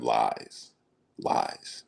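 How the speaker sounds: low dismissive lies sinking to a whisper; diva brush-off fading. Retold or imitated. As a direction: wave it off like a diva, trailing away. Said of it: "What is he, a diva?".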